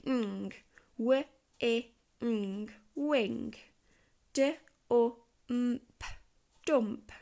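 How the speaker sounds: sounding out "wing" and "dump" sound by sound, then blending; Fred talk. Shown as a demonstration. Child Fred talks a word out loud. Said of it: "Fred talk this out loud".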